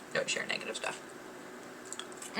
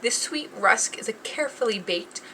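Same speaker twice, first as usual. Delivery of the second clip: ad read; 2 semitones higher than usual. Acted. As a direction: read it like a polished ad. Reads rusk description card.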